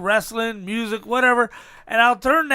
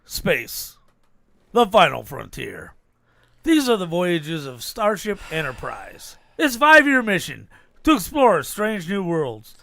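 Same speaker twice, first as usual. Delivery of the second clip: Star Trek narrator impression; 5 semitones lower than usual. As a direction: intone it like the Star Trek captain. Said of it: "you're trying to be, uh, Papa J".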